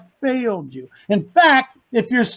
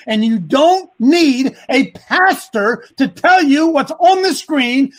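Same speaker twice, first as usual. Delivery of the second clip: impassioned rant; 3 semitones higher than usual. Real, not acted. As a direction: rant it at the congregation, raising your voice. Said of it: "that's a rant".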